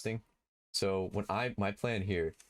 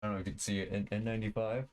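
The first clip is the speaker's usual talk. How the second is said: muffled behind an N95 mask; talking through a face mask. Real, not acted. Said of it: "I'm wearing a mask right now".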